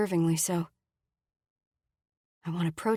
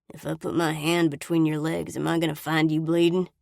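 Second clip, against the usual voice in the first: sneer. Acted. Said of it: "Brady sneers".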